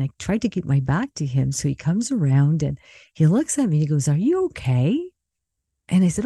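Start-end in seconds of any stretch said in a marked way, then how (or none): 4.1-5.1 higher-pitched, concerned check-in; lightly imitated concern, lifting at the end; concerned question. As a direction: gently voice a worried friend's question. Friend checks on tearful speaker.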